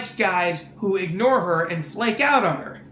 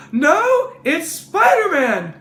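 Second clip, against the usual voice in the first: put-on high, loud, insistent kid hero; Spider-Man; 8 semitones higher, 5 dB louder, slower than usual. Caller denying he is Peter, high-pitched insistent voice. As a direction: insist in a high, comic boyish voice. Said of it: "Spider-Man makes a phone call".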